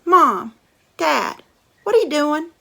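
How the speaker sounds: put-on shouting kid; calling brother. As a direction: yell up to Mom and Dad. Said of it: "Brother said".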